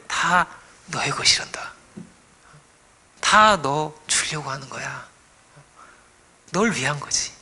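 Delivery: gentle, slow whisper of love; tender father. Acted.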